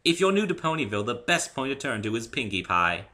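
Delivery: a gracious unicorn hairdresser; refined Rarity. A narrator's reading. Rarity offering Dave a haircut, high and refined.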